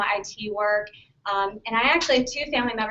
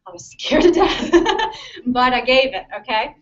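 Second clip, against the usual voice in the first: laughing; 7 dB louder than usual. Real, not acted. Laughing at own nerves.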